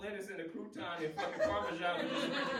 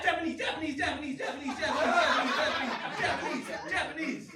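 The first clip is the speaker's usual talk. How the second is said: mock gibberish; 5 semitones higher, 8 dB louder, faster than usual. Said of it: "they was like".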